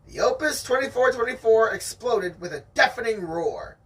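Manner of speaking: steady read-aloud storytelling voice; story narration. Acted. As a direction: read it like the audiobook. Reading the novel aloud.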